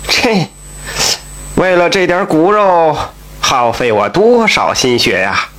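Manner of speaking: a touch of sighing sorrow; sighing lament. Acted. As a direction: sigh it out, half regretful, half drunk boasting. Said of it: "叹息地说".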